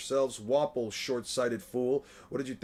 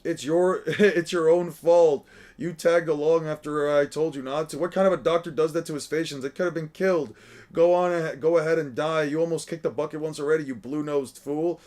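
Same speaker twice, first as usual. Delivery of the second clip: angry scolding; 3 semitones higher, 7 dB louder than usual. Acted. Hiluluk scolding Chopper for tagging along, loud angry yell. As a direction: chew him out for following you.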